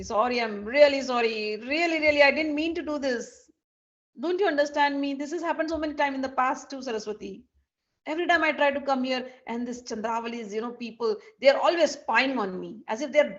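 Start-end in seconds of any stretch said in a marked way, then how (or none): 0.0-7.4 earnest, flustered excuse-making; pleading apology. Acted. Krishna apologising to angry Saraswati, earnestly pleading. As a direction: beg to be understood.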